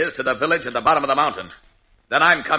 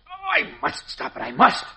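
straining effort; 12 semitones higher than usual. Acted. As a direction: push against the dial with all your strength. Straining to stop the rod.

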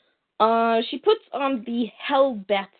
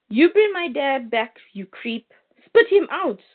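angry yell at the creature; 4 semitones higher than usual. Retold or imitated. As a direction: yell it like a boy whose father was just swallowed. John yelling at his dad's killer.

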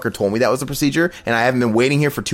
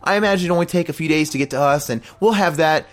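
higher, airy imitation of her; higher mock-cheery receptionist voice; mock breezy receptionist; 6 semitones higher than usual. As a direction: play her light and unbothered.

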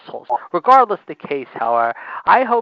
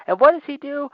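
ranting question; 10 semitones higher, 4 dB louder than usual. Real, not acted.

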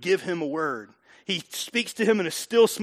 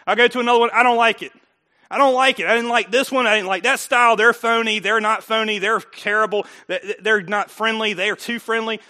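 complaining churchgoer; 2 semitones higher, 5 dB louder than usual. Retold or imitated. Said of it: "I'm like".

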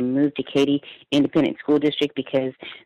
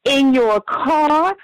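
higher, louder, slow mock disbelief; incredulous question; 9 semitones higher, 4 dB louder, much slower than usual. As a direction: drag out the shocked question like the old lady. Retold lady questioning, incredulous.

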